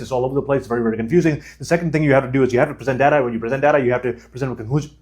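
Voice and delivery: very fast, crammed words with no pauses; rushed demo. Shown as a demonstration. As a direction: rattle it off at a million miles an hour. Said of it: "if I was speaking at a million miles an hour".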